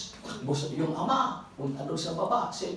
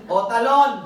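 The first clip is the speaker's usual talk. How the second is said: loud, laughing call to jump; urging shout; 4 semitones higher, 11 dB louder than usual. Retold or imitated. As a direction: urge the child to jump, half laughing. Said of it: "father urging jump".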